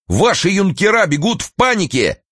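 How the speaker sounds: high, urgent call; flustered shout. A narrator's reading. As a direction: shout the news in alarm. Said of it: "закричал ему навстречу Николка".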